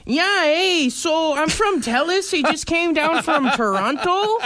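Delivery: put-on high, slow Toronto slang accent. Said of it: "I gotta try and do the accent".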